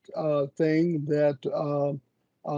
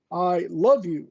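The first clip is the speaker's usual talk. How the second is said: "love" weighted with a falling tune; stress on love. Shown as a demonstration. Showing love is more than liking, stress on "love". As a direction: press "love" in "I love you", not mere liking. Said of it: "doesn't mean that I like you".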